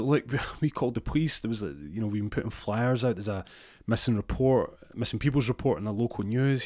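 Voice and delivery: lightly imitated exasperated girlfriend; pleading girlfriend. Girlfriend pleads with missing partner.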